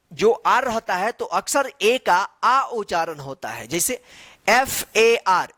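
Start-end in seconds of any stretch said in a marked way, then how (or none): 4.5-5.5 each letter drawn out slowly; slow spelling out. Shown as a demonstration. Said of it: "इसको क्या पढ़ेंगे?". (अक्षर-अक्षर धीमे से बोलना)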